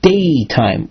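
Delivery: daytime set apart after a pause; stress on daytime. Shown as a demonstration. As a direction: isolate and lean on the word daytime. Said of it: "emphasizing the word".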